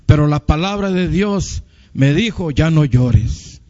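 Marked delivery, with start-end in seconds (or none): 2.5-3.6 tender consolation. Acted. Word of God consoling him.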